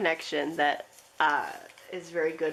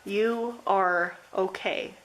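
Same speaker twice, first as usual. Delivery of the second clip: slow, steady, reassuring; slow reassurance; much slower than usual. Acted. Reading the last message to group three, slowly reassuring. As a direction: say it slowly, like a promise. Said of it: "this last message I have for you says".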